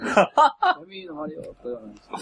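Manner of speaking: high, loud, laughing; laughing tease. Real, not acted. Friend teasing about Kumamoto dialect, laughing. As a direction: needle him with a grin.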